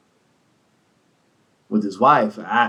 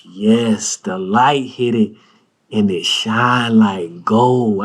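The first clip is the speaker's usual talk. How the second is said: lightly voiced connoisseur; 4 semitones lower, much slower than usual. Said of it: "He was like".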